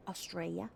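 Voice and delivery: Australia as a rising "uh-STRAY-uh"; Aussie pronunciation. Shown as a demonstration. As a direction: say Australia the Aussie way, lifting at the end. Corrects herself to Aussie pronunciation.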